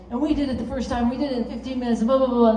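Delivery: animated climber. Retold or imitated. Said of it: "like, totally animated, psyched".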